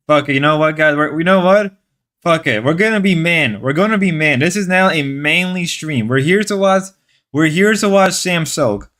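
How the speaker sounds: mock manly rallying speech; joking declaration, pretend to rally the men; sarcastic. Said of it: "I gotta stop being sarcastic".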